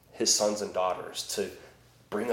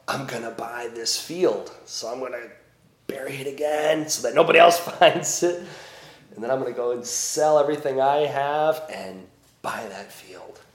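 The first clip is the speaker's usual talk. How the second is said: excited buyer; 4 semitones higher, 5 dB louder than usual. Retold or imitated. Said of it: "then says to himself".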